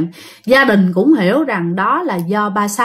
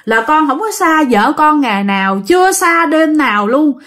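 high, plaintive retold plea; imitating tearful begging; insistent begging; 6 semitones higher than usual. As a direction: implore the master to let you stay. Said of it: "Mà năn nỉ quá trời".

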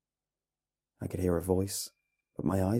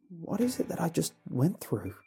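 slurred tired voice; 10 semitones higher than usual. A narrator's reading. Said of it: "in a slurred, tired voice".

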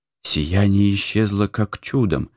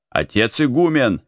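calling the abbot, raised voice; 6 semitones higher than usual. A narrator's reading. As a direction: call out to the abbot. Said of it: "начал кричать он". (окликает отца игумена)

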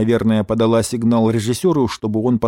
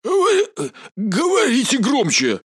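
much higher, strained hoarse voice; hoarse general; 12 semitones higher, slower than usual. Acted. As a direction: rasp it out, rattled. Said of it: "произнёс генерал хрипловатым голосом". (хрипловатым голосом, сбивчиво)

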